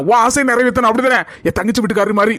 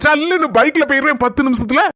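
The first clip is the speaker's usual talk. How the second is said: a touch of teary sobbing; lightly faked tears of joy; mock crying. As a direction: blubber the line over happy news. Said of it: "அழுதுட்டு இருக்க".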